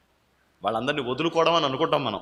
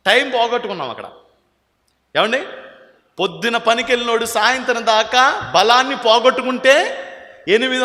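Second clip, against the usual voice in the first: higher and louder, driving the point; preaching at full force; 9 semitones higher, 6 dB louder than usual. Acted. Preacher pressing the congregation with everyday examples, loud. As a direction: hammer each example home.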